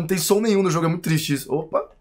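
ordinary talk

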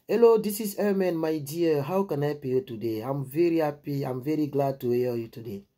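gentle, welcoming phone voice; sweet phone greeting. Retold or imitated. Answering a recruiter's call, sweet and welcoming. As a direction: greet her kindly, all charm. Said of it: "la manière dont j'ai parlé".

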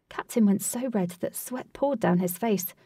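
ordinary delivery, nothing marked

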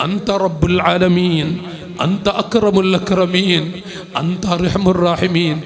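loud, slow impassioned pleading; boy pouring out his prayer to God, loud and slow; fervent prayer. Acted. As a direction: cry out the prayer to God at full voice. Preacher voices boy's fervent prayer.

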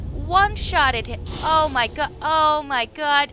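high, loud ecstatic yelling; overjoyed gamer shrieking; ecstatic shouting. Real, not acted. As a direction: scream with disbelief at the kill. Celebrating a one-shot kill.

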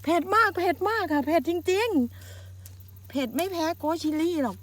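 slow, strained, high over chili heat; mouth burning from spicy food. Real, not acted. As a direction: drag words out through the burn. (พูดช้าลากเสียงเพราะปากแสบเผ็ด)

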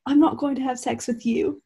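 lightly voiced English accent. Hardin turns Tess down, light English accent. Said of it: "Don't forget Hardin's accent".

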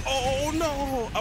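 high, loud panicked "oh no"; alarmed cry. Real, not acted. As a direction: yelp as it blows up. Grenade lands at his feet.

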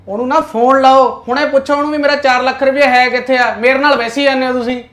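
angry customer demanding his money. Acted. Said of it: "ਤੁਸੀਂ ਤਾਂ ਯਾਰ ਗੁੱਸਾ ਹੀ ਕਰ ਗਏ".

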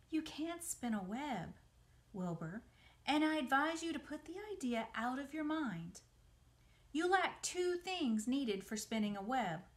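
light character voice, measured advice; Charlotte advising Wilbur. Acted.

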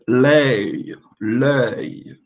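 L'œil dito com cuidado, duas vezes; French model word. Shown as a demonstration. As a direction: model L'œil with the final yod. (L'œil pronunciado com cuidado)

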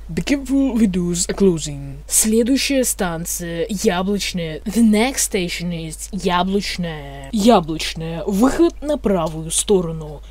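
metro announcer voice; mumbling subway conductor. Pretend. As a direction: read it like a train announcement. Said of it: "вы услышите информатор".

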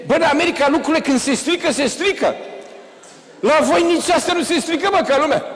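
high, loud, laughing foreign friend; American friend mocking. To Dane in the stuck lift, amused and loud. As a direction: play the amused American colleague. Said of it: "Băi, zice".

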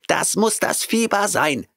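high cat voice, shrieked in panic; screeching cat. A narrator's reading. Cat Oliver shrieking while fleeing Grant. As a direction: cry it out as he flees. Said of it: "schrie er".

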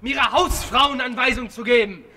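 furious, cutting retort; berserk rage. Real, not acted. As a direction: spit out the insult. Actor berating director on set.

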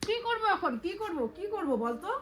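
real motherly telling-off, voice pitched right up; exasperated scolding. Real, not acted. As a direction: demand an answer, fed up. Mother scolds child over wet socks.

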